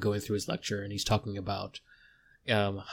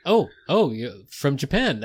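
higher, louder excited oh; light up at meeting her; delighted surprise; 4 semitones higher, 3 dB louder than usual. Acted. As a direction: researcher greeting the newcomer, delighted. Researcher greets newcomer.

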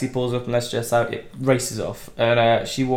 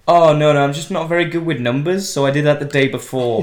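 airy excuse; 4 dB louder than usual. Retold or imitated. Suspect explaining the wrong date to investigator, airy excuse. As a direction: play innocent with a hammed-up excuse.

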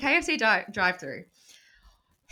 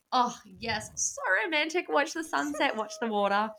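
mock dreamy; 6 semitones higher than usual. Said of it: "And I was like".

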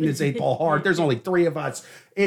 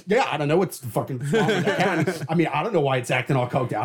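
laughing through a guilty fake denial; mock denial; 2 semitones lower than usual. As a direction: play dumb, badly hiding guilt. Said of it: "I'm just sitting there going".

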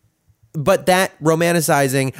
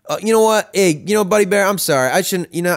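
imitating a flustered dad, higher and louder; halting, higher-pitched retold apology; dad backtracking apologetically; 6 semitones higher, 3 dB louder than usual. Dad apologizes to upset child on phone, flustered imitation. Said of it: "and he's like".

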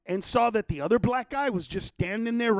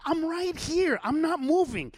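retold fighting talk, higher pitch; heated threat; 6 semitones higher than usual. Man threatening a father before his daughter, heated threat. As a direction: stand your ground and threaten.

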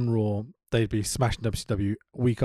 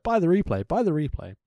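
announcer plug; 5 semitones higher than usual. Retold or imitated. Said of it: "tons of just like".

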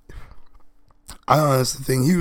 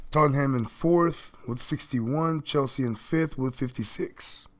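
hoarse, worn-out voice; lost voice; 4 dB quieter than usual. Real, not acted. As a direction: speak through a lost voice. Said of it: "Lost my voice".

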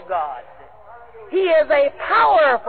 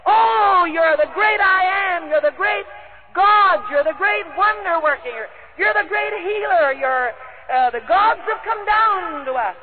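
adoring crowd crying out; 5 semitones higher than usual. Acted. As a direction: call out to Paul as if he were a god. Crowd worshipping Paul, voiced.

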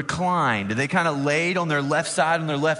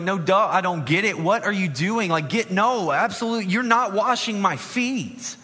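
higher, indignant refusal; a hint of an exasperated Peter; 5 semitones higher than usual. Peter refusing Jesus washing his feet, lightly voiced indignation. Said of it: "Peter's like".

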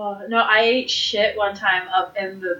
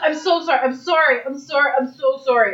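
retold frantic apologizing; 2 semitones higher than usual. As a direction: run of repeated, slightly raised apologies. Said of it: "I was apologizing before I even".

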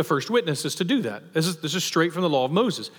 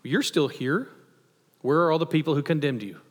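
mock surprise, pitch jumping up on "what do you know"; lightly acted fake astonishment; feigning surprise. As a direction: play it like you didn't notice they left. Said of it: "picture Jesus almost feigning surprise here".

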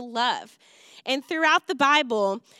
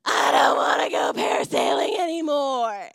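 put-on 1 child screaming; 2 semitones lower than usual. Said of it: "It was more like".

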